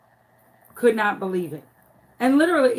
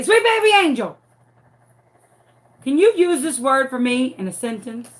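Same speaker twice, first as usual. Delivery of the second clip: high, sugary teacher coaxing; sweet teacher voice; 3 semitones higher, 4 dB louder than usual. Retold or imitated. Teacher calling on her sweet student, high and sugary. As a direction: coax a little boy gently, pitched up. Teacher calls on shy boy.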